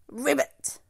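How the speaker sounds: croaky frog ribbit; a frog's ribbit call; frog croak. A narrator's reading. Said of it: "croaked a frog".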